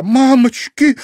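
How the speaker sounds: very high, loud shocked cry; girl horrified at the blood, very high and loud; exclaiming. A narrator's reading. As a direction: cry out in horror. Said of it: "воскликнула Серафима".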